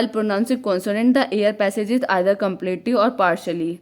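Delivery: slow, measured note dictation; dictating definitions word by word. Shown as a demonstration. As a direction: read it out slowly for notes. Dictates notes slowly.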